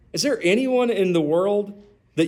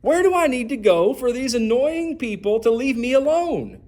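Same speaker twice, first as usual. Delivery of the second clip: exasperated inner thought; 7 semitones higher than usual. Retold or imitated. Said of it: "And you think".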